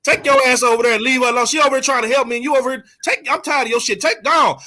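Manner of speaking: mock stern rebuke with some heat; retold angry rebuke. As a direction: scold her to back off, half re-enacted. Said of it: "I said".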